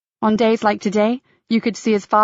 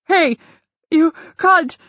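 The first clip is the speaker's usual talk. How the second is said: startled cry; 8 semitones higher, slower than usual. Acted. Guide elbowed, cries out.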